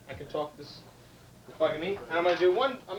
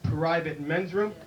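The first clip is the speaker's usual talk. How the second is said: slow, low movie-cowboy drawl; John Wayne; 3 semitones lower, slower than usual. Acted. John Wayne asking a bartender, slow drawl. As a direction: drawl it slowly like a Western star. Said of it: "John Wayne comes in".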